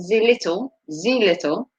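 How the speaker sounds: poor mock German accent. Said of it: "my poor German accent".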